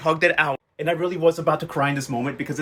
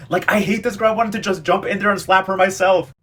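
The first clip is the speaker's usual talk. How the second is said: real outrage; 5 semitones higher, 5 dB louder than usual. Real, not acted. Viewer ranting about villain.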